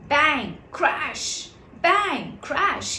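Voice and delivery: bang out each crash; thumping into the walls; banging noises. A narrator's reading. Sound of bumping into walls.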